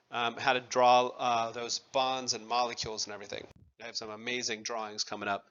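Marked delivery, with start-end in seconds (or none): 3.8-5.4 dry, low-key sarcasm, softer and lower; understated sarcastic boast, dropped low and soft. Real, not acted. Teacher joking to class about upcoming drawings, sarcastic. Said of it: "that was sarcasm".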